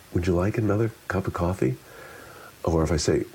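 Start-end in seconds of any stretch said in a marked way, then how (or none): 0.1-1.7 light, quicker question, lifted on "another"; subtly shifted tone. Shown as a demonstration. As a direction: ask it a little brisker, lifting "another". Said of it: "Each of those are subtle shifts".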